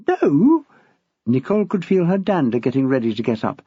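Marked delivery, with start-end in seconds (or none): 0.1-0.6 a high, louder flat no; sharp no. A narrator's reading. Young teacher correcting her headmaster, a sharp no. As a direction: cut him off firmly.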